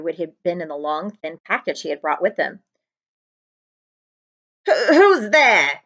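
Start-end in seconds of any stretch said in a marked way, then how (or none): 4.7-5.8 slow, high, louder shout with a laugh in it; nervous shout. Acted. Uncle Vernon shouts at the unseen visitor, slow and high. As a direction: call out, scared but trying to sound brave. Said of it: "he shouted".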